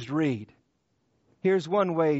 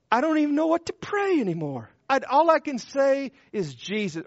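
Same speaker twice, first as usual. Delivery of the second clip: higher, fast, strained cry of a man at the end of his prayers; anguished plea; 6 semitones higher than usual. Acted. Preacher voicing a broken man who cannot pray, anguished. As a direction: let it tumble out in desperation.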